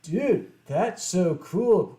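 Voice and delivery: slow cool delivery. Retold or imitated. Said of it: "I actually don't remember how I said it".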